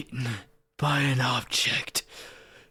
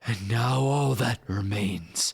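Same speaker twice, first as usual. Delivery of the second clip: edgelord voice; 4 semitones lower than usual. Acted. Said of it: "try to do edgelord voice".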